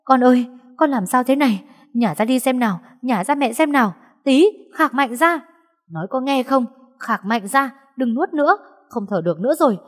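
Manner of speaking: mother yelling in panic, pitched high; frantic shouting mother. Acted. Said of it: "vừa hét". (giọng mẹ hoảng loạn hét cao)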